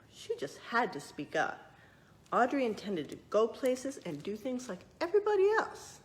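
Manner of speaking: lively storybook narration; reading to children. A narrator's reading. Librarian reading a true story to children, lively narration. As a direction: read it out like a picture book for kids.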